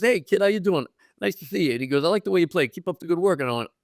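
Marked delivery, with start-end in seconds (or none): 0.0-1.7 higher, easygoing hello; retold friendly greeting. DiMaggio greets rookie again. 2.0-3.4 higher-pitched friendly praise; retold encouragement. DiMaggio encourages rookie.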